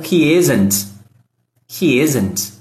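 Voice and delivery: "He isn't" blurred almost to "hi zn"; natural fast form. Shown as a demonstration. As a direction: clip "He isn't" as it sounds in real speech. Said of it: "você vai ouvir algo como".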